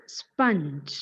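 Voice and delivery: sponge slowly as SPUNJ; short UH vowel in sponge; correct pronunciation. Shown as a demonstration. Teacher repeating for students, sponge as SPUNJ. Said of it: "correct pronunciation of the word".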